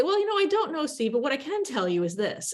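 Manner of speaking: sure-footed, breezy sidestep, high start on Well; confident pivot. Shown as a demonstration. Guest pivoting past a tough question to the host, confident. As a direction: brush off the question and barrel forward. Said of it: "you learn how to say".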